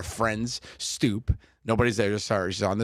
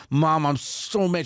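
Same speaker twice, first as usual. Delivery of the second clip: put-on little girl pouting; 7 semitones higher, 4 dB louder, slower than usual. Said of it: "and she went".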